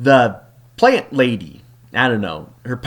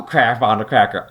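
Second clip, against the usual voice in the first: lower, gruffer doubling of the curse; lightly voiced, more exasperated hero; deeper mock Jace; 5 semitones lower than usual. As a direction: drop the voice down for the bigger curse. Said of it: "Jace is like".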